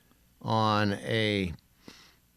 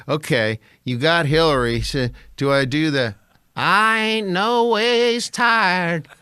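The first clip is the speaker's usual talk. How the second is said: mock producer voice; 6 semitones higher, 5 dB louder than usual. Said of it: "they'd be like".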